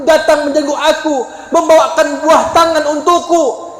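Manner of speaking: a former enemy begging forgiveness through tears; tearful confession. Acted. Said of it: "air mata dulu yang keluar".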